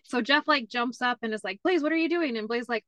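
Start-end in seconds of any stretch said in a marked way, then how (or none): 1.6-2.4 high, startled call of a name; startled dad. Retold or imitated. Dad to son in bathroom, high and startled. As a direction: catch him in the act.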